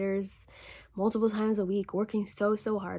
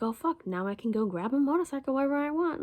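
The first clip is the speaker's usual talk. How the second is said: excited; 6 semitones higher than usual. Retold or imitated. Excited to get motorcycle.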